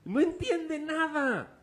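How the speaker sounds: very slow, high, stretched nada; drawn out emphasis. Acted. Preacher stresses Checo understands nothing, drawn out. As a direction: stretch every word.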